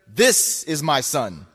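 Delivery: "This" drawn out slowly; stress on THIS. Retold or imitated. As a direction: lean long and hard on "This". Quotes changed word, this for you.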